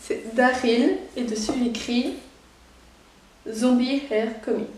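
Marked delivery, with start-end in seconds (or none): 3.5-4.7 slow English in a Belgian French accent. Real, not acted. Unboxer reading a T-shirt slogan, Belgian French accent. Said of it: "mon accent belge avec de l'anglais".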